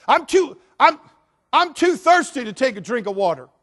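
mock whiny voice; whiny excuse. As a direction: whine it like a lazy excuse-maker. Mocking absurd excuses.

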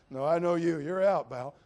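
a hint of a loud bouncer; mock doorman. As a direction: throw him out, half joking. Acted bouncer turning someone away.

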